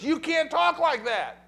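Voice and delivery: high, slow indignant scold; a mild mock rebuke of the teacher; lightly voiced Peter protesting; Peter scolding Jesus. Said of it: "tells Jesus".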